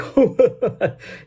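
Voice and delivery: lightly imitated mocking chuckle; imitated laugh. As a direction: laugh at him like the listeners did. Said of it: "the guy was like".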